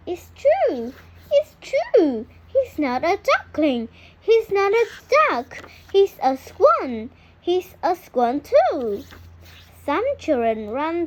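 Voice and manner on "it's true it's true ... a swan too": high, loud, triumphant; joyful reveal. A narrator's reading. Narrator tells children the duckling is a swan, triumphant. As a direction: announce it with delight.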